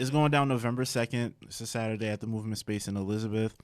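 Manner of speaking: chewing while talking; mouth full. Real, not acted. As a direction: talk around a mouthful of food. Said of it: "let me chew this".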